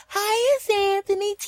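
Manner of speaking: very high mock feminine falsetto; sing-song drawn-out hello with a giggle; women's fake-sweet greeting. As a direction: imitate a phony sweet welcome.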